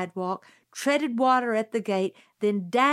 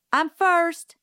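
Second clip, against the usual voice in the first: high, loud, eager; eager claim; 9 semitones higher, 6 dB louder than usual. A narrator's reading. Scout claims first push, eagerly and loudly. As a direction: grab the first turn.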